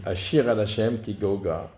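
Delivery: "Ashira" lightly stressed on the middle syllable, a-SHI-ra; understated accent on the SHI of "Ashira". Shown as a demonstration. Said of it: "il est sur le shin".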